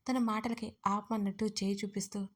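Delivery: ordinary delivery, nothing marked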